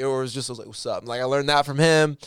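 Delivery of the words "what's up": cool head nod greeting. Retold or imitated. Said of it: "the cool head nod".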